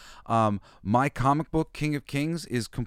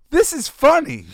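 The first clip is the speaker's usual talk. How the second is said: much higher and louder, delighted discovery; bright, loud realization; kids realizing; 11 dB louder than usual. Retold or imitated. Dad voicing his kids' realization, high and loud delight. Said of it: "They finally realize".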